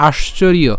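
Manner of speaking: আশ্চর্য with a clear "r-i-yo" ending; Sanskrit pronunciation. Shown as a demonstration. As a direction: sound out আশ্চর্য as "aash-chor-iyo". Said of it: "এর উচ্চারণটা কেমন হচ্ছে". (আশ্চর্য, শেষে "ইয়" স্পষ্ট উচ্চারণে)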